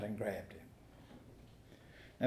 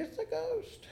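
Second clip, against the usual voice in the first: mock frightened shout; 5 dB quieter than usual. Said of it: "Would you be shouting".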